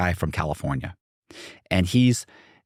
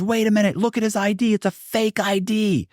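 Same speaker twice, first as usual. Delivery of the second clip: high-pitched, insistent mock hollering; mock screaming. Investigator exposing a supposed fake ID, mock screaming. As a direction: accuse in a high imitation yell. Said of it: "he's screaming, hollering".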